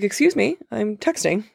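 put-on high, dismissive valley girl voice. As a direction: brush him off like a valley girl. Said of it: "super valley".

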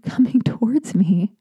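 usual speaking voice

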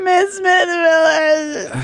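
slow high answering machine voice; voicemail greeting voice. Pretend. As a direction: play her own voicemail, drawn out.

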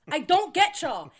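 high, loud, slowed-down exasperation. Real, not acted. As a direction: drag out the disbelief. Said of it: "repeated exasperation".

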